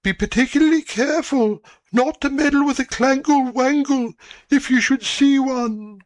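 put-on old cat's voice. A narrator's reading. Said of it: "And the old cat said".

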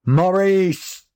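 a father shouting his son's name; father's shout. A narrator's reading. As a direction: call the boy sharply across the house. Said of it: "shouted Mister Basingstoke".

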